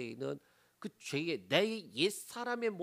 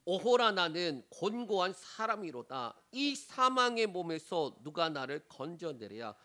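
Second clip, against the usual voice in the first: scripture reading. Shown as a demonstration. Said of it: "읽습니다".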